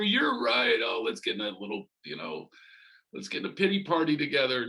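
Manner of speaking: high-pitched mock agreement; mock validation. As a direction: agree in a high, put-on people-pleasing voice. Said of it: "A lot of people just wanna hear".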